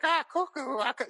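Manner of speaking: high, cuckoo bird-like squawk; Cuckoo Man voice. Retold or imitated. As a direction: squawk it like a loopy cartoon hero. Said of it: "Cuckoo Man is like".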